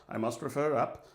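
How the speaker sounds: put-on lightly done British accent; a faint mock-British official; lame British accent. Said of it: "This is my lame British accent".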